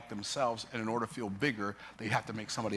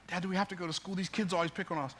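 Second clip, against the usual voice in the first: higher-pitched imitation of himself as a kid; sixth-grader self; 5 semitones higher than usual. Child asking dad about school, higher kid voice. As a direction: plead lightly as a schoolboy. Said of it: "I'm in the sixth grade now".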